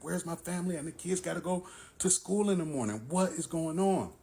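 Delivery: retold worry spilling into exasperated demands; worried and upset. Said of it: "You had me extremely worried".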